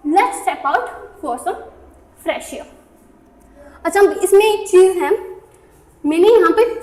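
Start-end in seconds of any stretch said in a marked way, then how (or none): 0.1-2.7 slow, word by word; slow dictation read; very slow repeat. Shown as a demonstration. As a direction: spell it out slowly for learners. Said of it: "कैसे बोल सकते हैं?".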